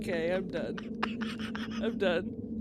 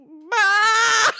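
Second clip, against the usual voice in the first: baaing like a sheep; 5 semitones higher, 5 dB louder than usual. Retold or imitated. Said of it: "she's just going".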